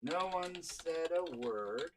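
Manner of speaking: slow and soft. Shown as a demonstration. Narrator retakes the line to build tense silence, slow and soft. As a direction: let the silence hang, slowly. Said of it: "another edit there".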